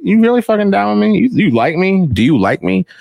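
high, pleading mock insecurity; needy quizzing. Imitating himself quizzing his wife, high and needy. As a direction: beg for reassurance, half joking. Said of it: "I'm quizzing her all the time".

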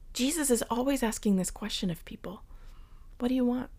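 soft hushed question; whispered. Acted. Preacher whispering Jesus' question to listeners. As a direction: whisper it intimately.

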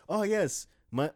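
put-on high, loud Chinese accent; a quick put-on Chinese accent. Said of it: "I shouldn't do a Chinese accent like that".

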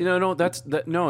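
laughing it off; laughing through the words. Real, not acted. Laughs at teasing praise.

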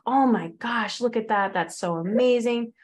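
mock fan gushing, then a jealous doubt; imitating an envious commenter, starting with a gush. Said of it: "they're like".

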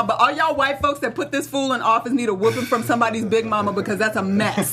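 lightly Southern, big-mama scolding; a touch of Southern scold; Southern accent. Real, not acted. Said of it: "Why you go Southern on them".

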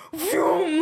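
drawn-out swooping vroom; imitated whoosh. Driver retells a hawk swooping past, imitated whoosh. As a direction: make the sound of a hawk zooming by.

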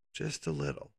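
soft unvoiced whisper, confiding. Real, not acted. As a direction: lean in and whisper it. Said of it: "twisting the truth a little".

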